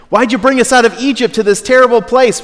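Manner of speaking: high, loud mock whine of a grumbling crowd; whining complaint. Israelites moaning at Moses about the desert, high mock whine.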